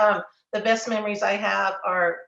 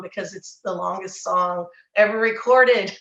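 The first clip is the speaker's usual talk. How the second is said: laughing; 4 dB louder than usual. Real, not acted. Funny memory, laughing.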